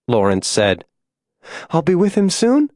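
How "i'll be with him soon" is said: high, fading dying voice; weak, labored voice. A narrator's reading. Dying June asks after her loved one, feeble high voice. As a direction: ask it feebly, with little strength. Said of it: "she mouthed between wet breaths".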